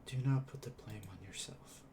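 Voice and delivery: soft consoling reassurance. Acted. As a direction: speak as softly as he can. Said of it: "in as soft as a voice as he can".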